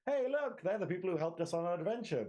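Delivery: high, cheery wave to the fairy folk; lightly voiced happy couple at the end; bright mock farewell to the creatures; chirpy hero voice.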